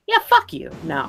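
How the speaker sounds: high-pitched indignant scoff; a squeaky mock rejection of the zombie film; mock outraged. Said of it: "mock outrage".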